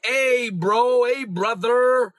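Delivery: imitating people who avoid the title; mock denominational believer. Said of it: "They'll be like".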